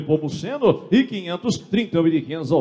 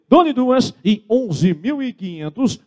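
auctioneer call; 6 semitones higher, slower than usual. Real, not acted. Auctioneer calling going twice.

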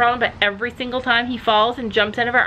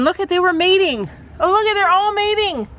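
grossed-out exclaim; 8 semitones higher than usual. Real, not acted. Shocked at mating bugs.

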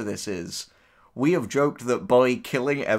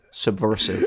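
right on the mic; 4 dB louder than usual. Pretend. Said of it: "getting real close to the mic to say".

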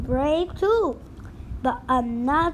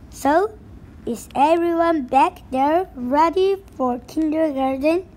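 hearty pirate calling to the crew; rally the crew like a captain. Acted.

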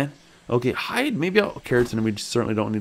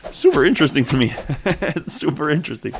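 amused laugh; 5 semitones higher than usual. Real, not acted. Laughing at a killed creature.

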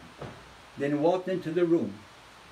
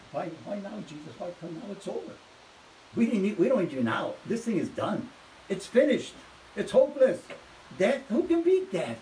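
mock mourners' despair; 3 semitones higher than usual. Mourners' despairing mindset voiced.

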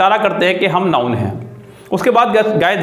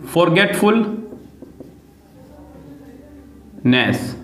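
फॉरगेटफुलनेस stretched very slowly syllable by syllable; very slow teaching pronunciation of फॉरगेटफुलनेस; drawn-out model word; 3 dB quieter, much slower than usual. Shown as a demonstration. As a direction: model फॉरगेटफुलनेस at a crawl for students. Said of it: "जैसे कि आपने कहा".

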